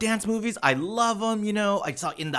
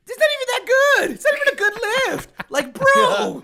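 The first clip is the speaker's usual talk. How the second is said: high, loud, fast exasperation; real indignation at the iconic lift; outraged rant; 6 dB louder than usual. Real, not acted. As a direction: rant in disbelief way up. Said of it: "ranting about the lift".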